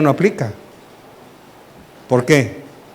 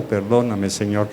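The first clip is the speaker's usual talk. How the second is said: low, soft, half-swallowed sorry; quiet mumbled apology; 6 semitones lower, 8 dB quieter than usual. Acted. Seated listener mumbling a grudging apology to the Lord, low and soft. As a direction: mumble the apology under your breath, lower and softer. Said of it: "Ahí sentado".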